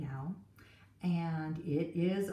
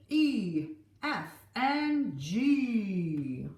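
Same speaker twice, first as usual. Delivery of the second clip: pirate captain; 3 semitones higher, 5 dB louder than usual. Acted. Pirate captain voiced in story.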